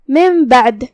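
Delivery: slow tajweed reading of من بعد, the نون of من turned into a nasal میم; careful slow demo of من بعد, nasal میم before ب; iqlab demo. Shown as a demonstration. Tajweed teacher showing students iqlab, slow and nasal. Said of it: "یہاں نون پہ جزم ہے".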